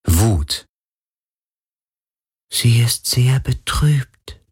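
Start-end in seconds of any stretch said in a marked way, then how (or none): 2.5-4.4 betrübt. A narrator's reading. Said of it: "sagte der Geist des Meeres".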